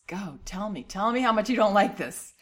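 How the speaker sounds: brave parent voice. Pretend. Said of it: "Be this brave hero that says".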